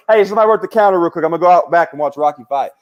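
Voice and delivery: excited owner. Retold or imitated. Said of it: "He was like".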